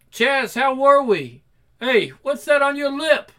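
lightly voiced punk musicians; excited punk band. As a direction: call out to your bandmates. Band members calling out.

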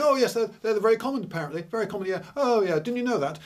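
a touch of a smug echo of the expert; lightly mock the people who repeat it; mild imitation of know-it-all gossip; parroting followers. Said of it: "they then started saying".

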